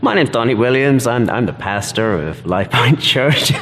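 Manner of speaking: a British speaker's attempt at an American accent; Donnie. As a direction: imitate an American pastor introducing himself. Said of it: "you do your best Donnie".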